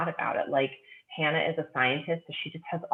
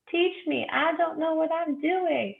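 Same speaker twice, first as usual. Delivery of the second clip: pleading novice; 14 semitones higher, slower than usual. Pretend. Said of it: "sucker for a sex lessons book".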